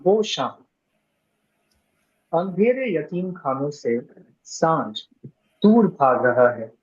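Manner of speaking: measured recitation with pauses between phrases; deliberate, phrase-by-phrase Hindustani verse reading; Hindustani poetry recital. Acted. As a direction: recite the Hindi verse line by line.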